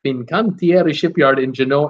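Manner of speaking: mock Italian accent on "Fincantieri Shipyard in Geno-", rolled and sung out. Shown as a demonstration. Host trying the shipyard name for chat, in an Italian accent. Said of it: "I'll try to put the Italian accent on it".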